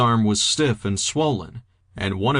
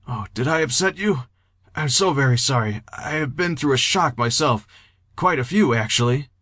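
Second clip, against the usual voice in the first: higher, courteous and concerned; polite, apologetic Henry; 4 semitones higher than usual. A narrator's reading. Henry apologising to an upset Jeter, politely concerned.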